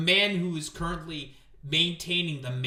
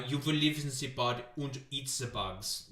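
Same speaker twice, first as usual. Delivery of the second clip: lightly mocked German accent; mock German-accented villain line; Klaus Schwab. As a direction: put on a hint of a German accent. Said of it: "You know, the Klaus Schwab".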